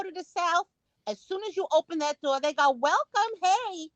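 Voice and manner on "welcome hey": lightly imitated eager welcome; a hint of high-pitched hospitality; welcoming shop helper. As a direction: lightly play a helpful Southern shop worker. Voices welcoming Southern shop worker.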